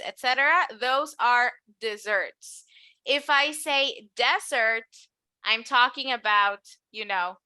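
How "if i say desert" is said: DEsert with the stress at the front; desert on the first syllable. Shown as a demonstration. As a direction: say desert with the weight on DE. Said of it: "careful here with the pronunciation".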